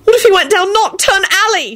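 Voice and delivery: high, frantic worry; high-pitched panicky lament; wailing. A narrator's reading. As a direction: wail as if imagining the worst. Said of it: "she wailed".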